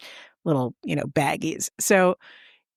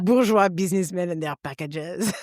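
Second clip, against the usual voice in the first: French courier. Retold or imitated. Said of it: "with a beret going".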